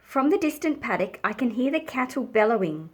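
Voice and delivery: measured picture-book reading with dramatic pauses; story narration. A narrator's reading. Reading of a storm nearing the farm, atmospheric storytelling. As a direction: let the storm gather, phrase by phrase.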